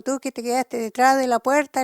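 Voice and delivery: mildly shouted retold call. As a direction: call out the accusation from afar. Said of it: "le grita y le dijo".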